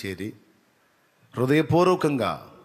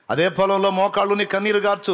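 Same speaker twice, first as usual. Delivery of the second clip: forceful preaching repeat; 7 semitones higher, 5 dB louder than usual. Acted. Preacher repeats exhortation louder.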